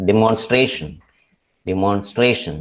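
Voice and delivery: "demonstration" stressed on STRA both times; demon-STRA-tion, weight on the second-last syllable. Shown as a demonstration. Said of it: "it is stray".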